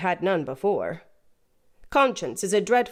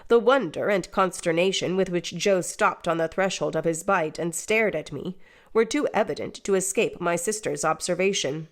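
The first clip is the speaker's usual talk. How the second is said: ordinary delivery, nothing marked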